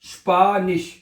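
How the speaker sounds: स्पानिश in two parts, first vowel held; sounding out. Shown as a demonstration. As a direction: teach स्पानिश as "shpaa-nish". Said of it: "ये शीन हो जाएगा ना".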